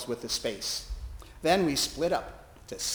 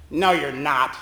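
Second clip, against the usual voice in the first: louder, curt denial; spat-out retort; 6 dB louder than usual. Retold or imitated. Preacher telling the chaplain she is none, curt loud retort. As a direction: spit the words back at her. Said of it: "he spit out".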